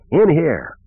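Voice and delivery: high-pitched call, moderate volume; bellow. A narrator's reading. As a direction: summon him from the next room. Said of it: "he bellowed".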